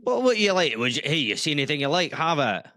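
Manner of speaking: trying out a Scottish accent; generous Scottish merchant. Shown as a demonstration. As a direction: demo a Scots shopkeeper's accent. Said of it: "do you do a Scottish accent".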